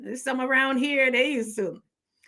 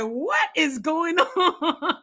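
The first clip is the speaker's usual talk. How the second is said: laughing quote; 6 semitones higher, much slower than usual. Retold or imitated. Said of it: "They're gonna be like".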